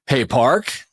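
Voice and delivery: "Hey, Park" in a light, sing-song call; trigger phrase "Hey, Park". Retold or imitated. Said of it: "like that, like, with that type".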